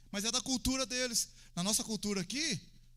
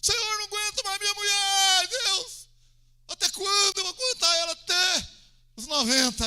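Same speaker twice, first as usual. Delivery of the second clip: high, loud despairing complaint; hammed-up wailing shout; 11 semitones higher, 9 dB louder than usual. Acting a husband crying to God about his wife, wailing shout. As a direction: bawl the grievance up to heaven. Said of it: "chora lá, grita lá".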